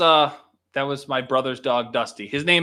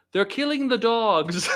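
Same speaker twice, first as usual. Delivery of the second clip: slow, much higher mock Trump, half laughing; Trump impression; 10 semitones higher, slower than usual. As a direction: ham up the outrage slowly. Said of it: "Fucking Trump".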